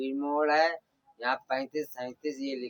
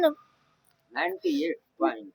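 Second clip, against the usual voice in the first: prompting; 4 dB louder, much slower than usual. Real, not acted. Teacher prompts the reading.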